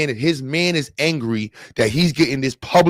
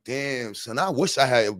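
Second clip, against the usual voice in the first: much softer, under the breath; mock envious mumble; 6 dB quieter, slower than usual. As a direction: grumble it to yourself like a jealous old man. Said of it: "he's like".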